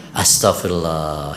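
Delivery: slow, low, half-sighed Astagfirullah; understated exasperated mother; mock exasperated sigh. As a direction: lightly act out a fed-up mother. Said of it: "Ini enggak".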